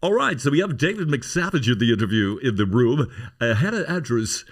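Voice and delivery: bright radio presenter intro; radio host voice. Retold or imitated. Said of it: "one of these classic".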